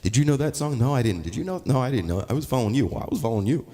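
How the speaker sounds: high-pitched back-and-forth between two bandmates; mock musicians' chat. Two musicians admitting they faked the song, mock bright exchange. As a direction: play both fakers owning up, lightly mocking. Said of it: "and it's like".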